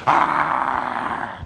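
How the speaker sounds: drawn-out imitated animal roar; bear roar. Storyteller plays the bear chasing old man, drawn-out roar. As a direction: roar like a furious charging bear. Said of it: "He was roaring and clawing".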